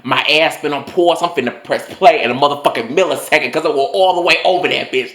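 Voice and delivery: lightly put-on New York voice, sassy. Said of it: "I'm thinking in my New York voice".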